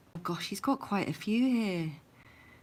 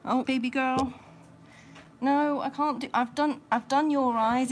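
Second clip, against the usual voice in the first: high excited pet talk; 6 semitones higher, 5 dB louder than usual. Real, not acted. Calling to rabbit.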